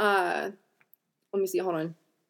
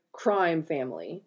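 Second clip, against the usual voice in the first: sarcastic air quotes; 4 semitones lower, slower than usual. Real, not acted. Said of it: "I use crime in not only air quotes".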